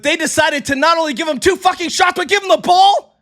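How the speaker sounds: real yelling. Real, not acted. Streamer venting to chat about the foul call, yelling. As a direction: let it build into a yell. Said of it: "I'm sorry I'm yelling into the mic".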